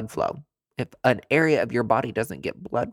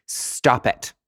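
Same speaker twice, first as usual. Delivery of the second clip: whispered stop it. Real, not acted. Scolding, whispered.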